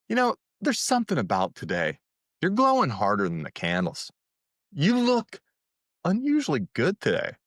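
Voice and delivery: playful flirty compliment, voice leaping up on You look. Shown as a demonstration. Dating coach demos a Thanksgiving compliment, flirty and playful. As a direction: tease her like a charmer with a smile. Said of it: "You might say something like".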